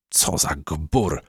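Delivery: slow, scornful aside; a disdainful slow scoff; huffy snort. Acted. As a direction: sniff at the rude compass. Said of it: "parsknęła gumka".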